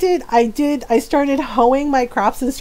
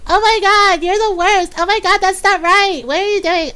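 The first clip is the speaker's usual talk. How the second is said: mock outraged viewer; 6 semitones higher than usual. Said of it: "They were just like".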